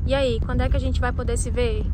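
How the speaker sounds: tinny speakerphone call. Acted. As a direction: voice through a phone speaker. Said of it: "colocar no Viva Voz".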